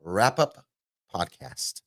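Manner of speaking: slow, stretched-out show title announcement; vlogger voice intro. Pretend. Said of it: "with my vlogger voice intro".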